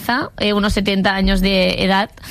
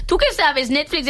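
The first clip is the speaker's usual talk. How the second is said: higher, indignant challenge; mock scolding; 4 semitones higher than usual. Real, not acted. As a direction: tell Netflix off in jest. Scolding Netflix mockingly.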